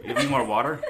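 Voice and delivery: breathless after walking here; panting between words; out of breath. Real, not acted. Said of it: "I'm out of breath".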